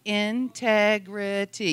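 "integrity" drawn out slowly, syllable by syllable; slow syllable count. Shown as a demonstration. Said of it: "Yes, that's four syllables".

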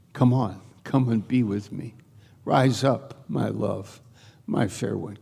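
gentle coaxing, softening at the ends; tender. Retold or imitated. God calling the beloved to come, tender. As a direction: invite a loved one softly. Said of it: "It's so tender, so precious".

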